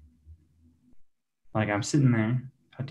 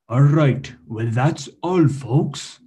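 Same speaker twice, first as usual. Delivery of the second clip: "that's all, folks" in a slow Russian cartoon-rabbit accent; Russian Bugs Bunny accent; 3 dB louder, slower than usual. Comedian signs off his set, in a Russian Bugs Bunny accent. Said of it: "Russian Bugs Bunny accent".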